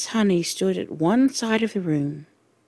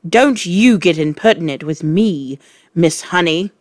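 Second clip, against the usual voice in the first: louder angry snap; snapping; 5 dB louder than usual. Acted. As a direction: bite the words off. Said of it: "the Trunchbull snapped".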